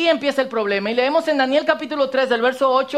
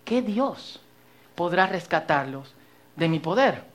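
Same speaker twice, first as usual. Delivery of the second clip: arrogant king; 6 semitones lower, 6 dB quieter, slower than usual. Shown as a demonstration. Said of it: "se le había subido los humos".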